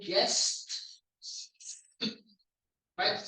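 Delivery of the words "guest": "guest" drawn out slowly, final s and t released; careful pronunciation. Shown as a demonstration. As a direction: model "guest" slowly with a crisp ending. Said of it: "how I pronounce it is".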